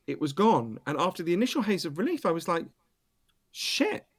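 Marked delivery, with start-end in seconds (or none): 3.5-4.1 a sudden high yelp of dismay; alarmed shit. Retold or imitated. Alone without his phone, he yelps in high dismay. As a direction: blurt it out as the panic hits.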